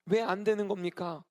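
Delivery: lightly acted plaintive plea, first words drawn out; mock tearful protest. Believer protesting to God over a blocked path, mildly plaintive. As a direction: plead as if starting to cry, lightly. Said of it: "우리는 울기 시작합니다".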